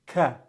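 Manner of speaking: ka said with a hard English k, no rasp; the learner's ka for kha; wrong plain k. Shown as a demonstration. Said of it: "pronounce this as".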